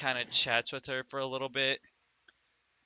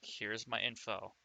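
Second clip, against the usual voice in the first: secretive quiet voice; 2 semitones lower, 6 dB quieter than usual. Acted. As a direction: keep it quiet so nobody hears. Character secretly passes note.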